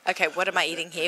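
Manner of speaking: talking through a mouthful; chewing while talking. Real, not acted. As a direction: speak around a bite of food. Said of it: "Can you talk while I eat?".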